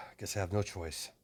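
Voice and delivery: sighing, low-key, quiet resignation; resigned. Acted. Fighter left with no choice, quietly resigned. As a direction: give in softly after a sigh. Reluctant character sighs, gives in.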